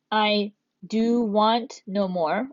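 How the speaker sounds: testing an awkward version slowly; slow trial reading. Shown as a demonstration. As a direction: try the phrase out slowly. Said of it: "it would make more sense".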